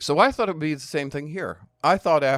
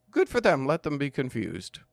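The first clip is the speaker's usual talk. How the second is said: breezy defiance; 2 semitones higher than usual. Retold or imitated. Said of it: "part of my approach was".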